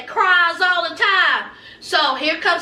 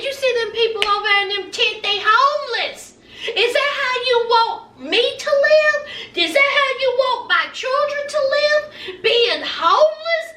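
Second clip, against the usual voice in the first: higher-pitched, acted indignant appeal; indignant pleading; 6 semitones higher than usual. Son protests to his mama about living homeless, indignant pleading. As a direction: plead as a wronged son, retold.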